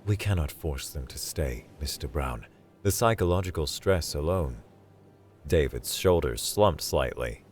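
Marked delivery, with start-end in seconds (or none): 0.0-4.6 resigned. Acted. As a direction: give in gently. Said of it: "cycling through resignation".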